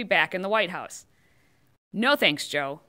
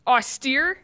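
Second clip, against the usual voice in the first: incredulous question; 2 semitones higher, 3 dB louder than usual. Real, not acted. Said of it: "Couldn't have written serious".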